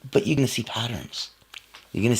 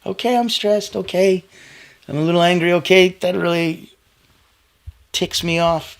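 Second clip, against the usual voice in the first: acknowledging self-talk; 8 semitones higher, 5 dB louder than usual. Retold or imitated. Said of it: "they acknowledge emotions without being overwhelmed".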